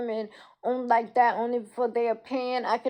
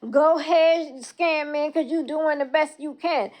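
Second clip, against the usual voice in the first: higher, louder heated rant; angry rant; 4 semitones higher, 3 dB louder than usual. Real, not acted. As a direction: push it out, outraged.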